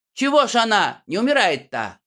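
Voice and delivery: a hint of a puzzled heckler; puzzled spectator. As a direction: ask it like a baffled villager.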